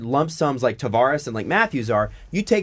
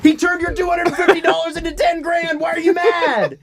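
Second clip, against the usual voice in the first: exasperated rant; 11 semitones higher than usual. Real, not acted.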